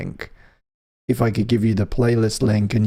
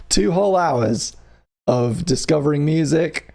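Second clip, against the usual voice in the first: excited emphasis; 4 semitones higher than usual. Shown as a demonstration. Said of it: "second, emphasised take".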